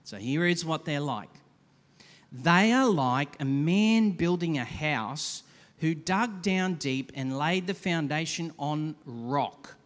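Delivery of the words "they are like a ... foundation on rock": slow, deliberate Bible reading; scripture reading. Acted. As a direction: read the passage slowly with weight. Reads scripture slowly.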